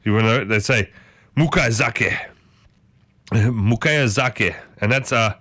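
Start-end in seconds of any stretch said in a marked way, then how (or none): 1.4-2.2 amateur Japanese, syllable by syllable; attempted Japanese accent. Shown as a demonstration. Telling viewers what they say in Japan, attempted Japanese accent. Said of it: "get better at these accents". 3.3-4.5 slow, deliberate Japanese phrase; attempted Japanese accent. Shown as a demonstration. Repeating what they say in Japan, slow attempted Japanese accent. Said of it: "get better at these accents".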